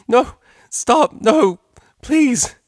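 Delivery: high, loud pleading through laughter; laughing protests. Acted. Octavia begging Vinyl to stop tickling, laughing shrieks. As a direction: squeal it while being tickled. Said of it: "despite the mare's struggles and hysterical laughter".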